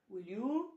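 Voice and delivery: "will you" with a rising tone. Shown as a demonstration. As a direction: let "will you" lift at the end. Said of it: "rising tone use गर्ने".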